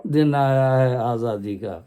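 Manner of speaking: slow, measured poem recital; stately nazm recitation. Acted. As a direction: recite each line slowly and with weight. Next stanza of nazm. (باوقار انداز میں آہستہ نظم خوانی)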